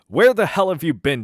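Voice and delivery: a boss bellowing at a late employee; angry boss. Acted. Manager Manny to the late waitress, loud angry shout. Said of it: "I'll do the voices".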